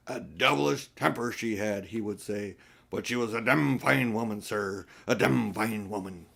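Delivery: put-on a touch of a doting old rogue reminiscing; hint of an old man savouring his own story; old Uncle Andrew. Old uncle's boast about the lady.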